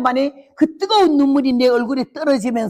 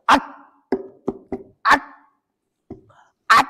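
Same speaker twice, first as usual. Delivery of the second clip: 짧은 비명 흉내; 4 semitones higher than usual. Retold or imitated. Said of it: "이러는데".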